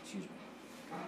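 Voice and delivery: hushing a heckler, mock patient; mock explaining. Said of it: "I say".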